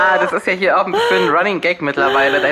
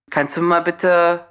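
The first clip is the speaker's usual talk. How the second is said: annoyed; slower than usual. Retold or imitated. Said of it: "so richtig angepisst schon".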